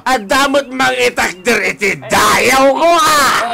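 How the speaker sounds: put-on proud drunk father shouting about his honour; drunken boast. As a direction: bellow the boast, tipsy.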